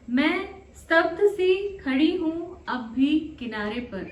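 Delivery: spaced poetic phrases, lifted openings and falling endings; love poem recitation. Acted. Poet shares a love poem with channel listeners, measured recitation.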